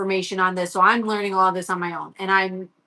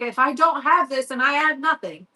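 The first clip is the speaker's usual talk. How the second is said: higher retold plea; upset; 4 semitones higher than usual. Son telling mom football is all he has, upset. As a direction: lightly imitate an upset kid pleading. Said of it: "he was so upset".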